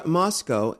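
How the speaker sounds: "Moscow" ending in koh, like go; Moscow as MOSS-koh. Shown as a demonstration. Traveler back from Russia, pronouncing "Moscow" as MOSS-koh. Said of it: "I did not say Moscow".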